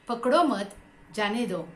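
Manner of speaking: पकड़ो मत run together, then जाने दो set apart; group पकड़ो मत, break, drop onto जाने दो; pause after मत. Shown as a demonstration. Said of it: "फिर एक बार उच्चारण करूंगी". (पकड़ो मत एक साथ, जाने दो अलग)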